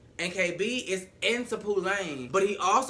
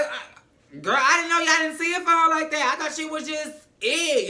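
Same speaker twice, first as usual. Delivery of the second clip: can't believe it, laughing through it; laughing disbelief; 11 semitones higher, 6 dB louder than usual. Real, not acted. Reacting to the school cheering, she laughs in high disbelief.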